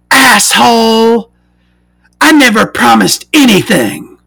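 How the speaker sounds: high put-on voice, by mistake; wrong voice for himself. Seller's reply wrongly voiced high, put-on voice. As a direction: voice his own reply too high. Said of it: "Why am I doing that voice for me?".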